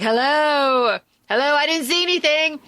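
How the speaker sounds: hammed-up playing innocent; mock startled denial. Philip facing his girlfriend, mock startled denial.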